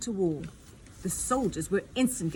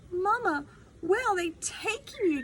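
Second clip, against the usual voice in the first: demanding; 10 semitones higher than usual. Acted. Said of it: "demanded Alfred".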